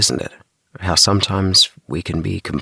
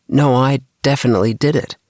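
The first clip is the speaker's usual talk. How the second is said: puzzled; 9 semitones higher, 4 dB louder than usual. A narrator's reading. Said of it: "getting a bit puzzled".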